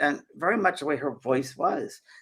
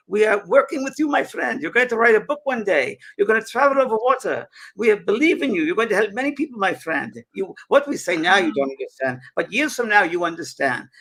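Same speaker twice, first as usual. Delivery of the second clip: loud spirit voice; 7 semitones higher, 5 dB louder than usual. Retold or imitated. Spirit voice addressing James at the seance, loud and high. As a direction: boom out a blessing from beyond. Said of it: "And he said".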